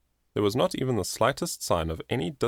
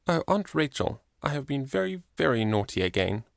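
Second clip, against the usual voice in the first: high, tearful confession; a child's teary apology to her aunt; weeping; 6 semitones higher than usual. A narrator's reading. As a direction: plead through tears, higher in the voice. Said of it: "she wept".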